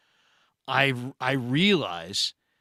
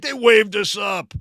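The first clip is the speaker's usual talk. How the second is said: same claim pushed louder and firmer; louder insistence; 7 semitones higher, 7 dB louder than usual. Retold or imitated. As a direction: repeat it, annoyed you must say it again. Buddy repeats the claim, insisting.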